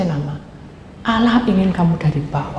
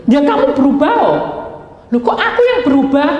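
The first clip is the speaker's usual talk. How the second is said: high, raised-voice mock argument; acted retort; 6 semitones higher, 3 dB louder than usual. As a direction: throw it back in indignant protest. Acted argument between God and person. (protes dengan nada tinggi)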